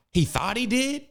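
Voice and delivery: incredulous. Real, not acted. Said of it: "Hold on, thought?".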